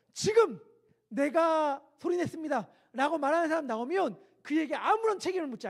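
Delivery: loud high shouted order, slowed; officer's command. Retold or imitated. Drill officer ordering the culprit to confess. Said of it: "교관이 이야기합니다".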